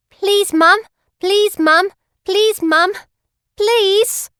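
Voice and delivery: high, loud, rising beggar's whine; begging plea. Acted. Begging lady outside bakery.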